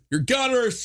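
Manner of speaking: shrill high outraged cry; hammed-up Karen yelling at door camera; mock Karen. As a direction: screech it like an angry Karen. Mocking Karen on doorbell camera.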